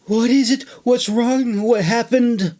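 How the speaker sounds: high, anxious questions; begging. Acted. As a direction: press her for answers, worried. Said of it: "Lynn begged".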